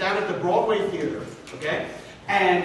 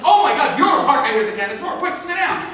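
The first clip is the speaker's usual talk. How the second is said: hurried, higher, relieved; frantic makeup woman; 5 semitones higher than usual. Retold or imitated. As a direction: hustle him into the chair. Makeup woman rushes him.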